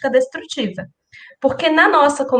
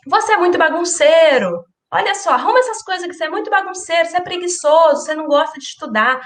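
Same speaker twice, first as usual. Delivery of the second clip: put-on higher, faster nagging at a messy child; scolding parent; 4 semitones higher, faster than usual. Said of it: "a gente vai dizendo".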